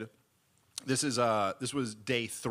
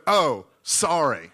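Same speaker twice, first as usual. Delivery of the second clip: laughing meek apology; 3 semitones higher, 10 dB louder, much slower than usual. Retold or imitated.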